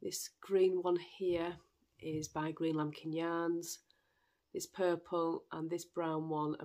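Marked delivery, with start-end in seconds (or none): 0.0-1.5 whispered. Real, not acted. Showing yarn, whispered.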